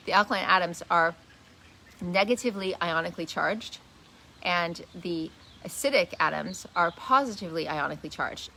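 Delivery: measured phrasing with a pause before the key term. Real, not acted. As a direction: take the technical words slowly and clearly. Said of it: "let me say that a bit slower".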